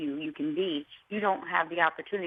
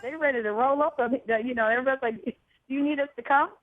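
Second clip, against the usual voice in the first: hyped up; 7 semitones higher, 4 dB louder, faster than usual. Retold or imitated. Hyped quoting her crew.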